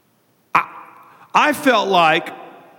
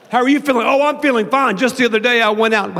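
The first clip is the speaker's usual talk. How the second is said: high, strong start trailing into mumble; fader; 6 semitones higher, 4 dB louder, faster than usual. Shown as a demonstration. Pastor imitating a fader in small talk, strong then fading. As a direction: begin peppy, let the end fade away. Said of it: "They'll be like".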